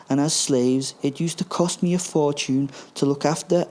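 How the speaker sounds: smug villain Hans. Acted. Hans explains plan to Gruber.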